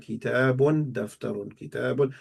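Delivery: two words alternated by rote; level, rhythmic memorizing recitation; paired repetition drill. Shown as a demonstration. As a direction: recite the pair evenly, as if memorizing. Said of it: "I would say the, both of them together".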